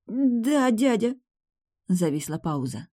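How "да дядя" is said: put-on higher young woman's voice, meek; the niece answering her uncle; girl. A narrator's reading. (племянница, высоким голосом, робко)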